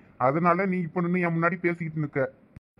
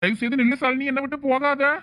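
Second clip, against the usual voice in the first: desperate pleading; 7 semitones higher than usual. Acted. Pleading with wife leaving him.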